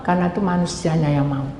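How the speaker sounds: ordinary talk, nothing marked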